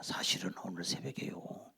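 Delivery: low, soft, half-whispered report; quiet courtier. Acted. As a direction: lean in and confide it to the king. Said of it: "조용히 신하가 얘기합니다".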